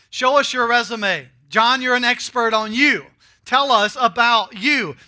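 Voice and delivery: demanding questioners. Acted. Priests from Jerusalem demanding John's resume, loud and pushy. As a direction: fire the questions at him, pushing hard.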